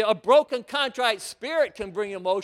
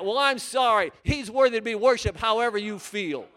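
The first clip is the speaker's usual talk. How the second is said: louder, insistent preaching; 4 dB louder than usual. Acted. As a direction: press the point home to the congregation. Preacher's rising exhortation.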